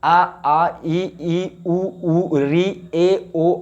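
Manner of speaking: each vowel sound said slowly and separately, आ आ ई ई; vowels recited one by one. Shown as a demonstration. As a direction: demonstrate each vowel for the class. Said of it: "इन वर्णों का उच्चारण जब करते हैं हम". (स्वरों का धीमा स्पष्ट उच्चारण)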